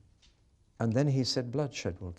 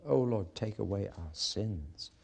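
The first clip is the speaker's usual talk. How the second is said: sincere prayer; 2 semitones lower than usual. Shown as a demonstration. Preacher showing the right prayer, humble and sincere. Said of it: "That's the kind of prayer he wanted".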